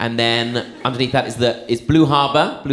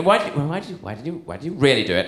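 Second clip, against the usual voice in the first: annoyed mum; 2 semitones higher, much faster than usual. Retold or imitated. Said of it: "the mum was getting really annoyed".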